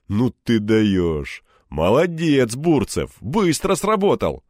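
loud, slow, delighted praise; excited praise. Acted. Egor praising Anton's quick work, loud and delighted. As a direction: cheer him on loudly.

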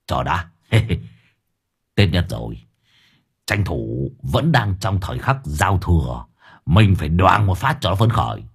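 low, slowed mischievous plotting; sly chuckle. Acted. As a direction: savor the prank idea. Old man scheming, chuckling.

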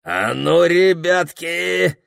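a bandit leader calling his men; hoarse robber call. Acted. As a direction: bandit chief rousing his gang, slow and menacing. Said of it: "прохрипел Пехтель".

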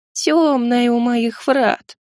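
slow, eerie little voice; drawn-out gargoyle whisper-voice; thin creature voice. Acted.

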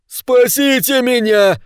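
high, slow, strained cry for help; desperate wail. A narrator's reading. Pavka, surrounded on the street, wails for rescue in high terror. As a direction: wail as if being torn apart. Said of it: "завопил Павка".

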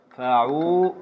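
"فعول" drawn out with a long ـعو; teacher's stretched pattern word; metrical breakdown. Shown as a demonstration. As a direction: sound out "فعول" syllable by syllable. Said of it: "قطع لنا البيت".

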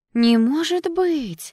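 high, loud, drawn-out disbelief; scandalized girlfriend's astonished gasp; shocked gasp. A narrator's reading. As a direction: gasp it out, stretching the words high. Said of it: "ахнула вторая девушка".

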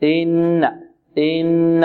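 إن with a gentle short i and level humming ن; unjabbed, unstretched hamza. Shown as a demonstration. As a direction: ease into إن without lengthening the kasra. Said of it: "لا نمدها أو لا نمد كسرتها".

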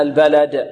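البلد with a clearly bounced final د; clear qalqalah. Shown as a demonstration. Teacher clarifies the echo here, clear qalqalah. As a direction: make the د of البلد echo on release. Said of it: "نوضح القلقلة هنا".

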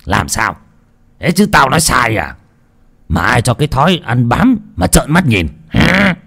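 a touch of a bullying husband's scolding. Acted. Husband scolding his bedridden wife, mildly harsh. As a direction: snap at her, mildly, from Phú Đại's side. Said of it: "Quát tháo xong".

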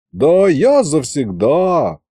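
slow and careful; wary, drawn-out reply to Yaguta; cautious drawl. Acted. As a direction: draw it out warily. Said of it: "Осторожно протянул я".

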